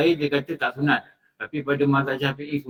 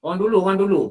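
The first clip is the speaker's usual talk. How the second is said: raised, louder exclamation; emphatic; 5 semitones higher, 5 dB louder, much faster than usual. Real, not acted. Preacher stresses to listeners what people of old did, raised voice. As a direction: call it out with emphasis.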